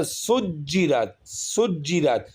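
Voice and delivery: سجرت with a firm stop before the ر; slow sharp سجرت; سجرت read with firmness; read firmly. Shown as a demonstration. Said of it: "سختی کے ساتھ پڑھیں گے".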